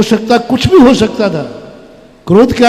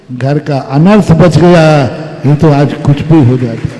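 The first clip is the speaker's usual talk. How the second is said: tender mother-in-law. Acted. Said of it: "बोले".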